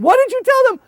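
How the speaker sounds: loud high demand; pressing demand. Retold or imitated. Leader to translator, loud high. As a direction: press for the answer.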